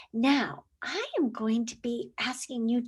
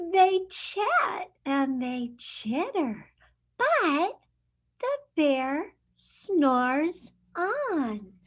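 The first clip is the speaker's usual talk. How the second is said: lively picture-book read-aloud; reading to children. Acted. Teacher reading a picture book to her class, lively storytime voice.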